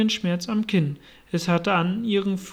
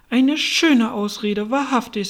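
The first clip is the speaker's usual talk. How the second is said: slow, drawn-out scorn, higher pitched; deep contempt; 5 semitones higher, 5 dB louder than usual. A narrator's reading. Pigeon dismisses Alice's excuse with deep contempt. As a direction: sneer it slowly, leaning on the words. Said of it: "im Tone tiefster Verachtung".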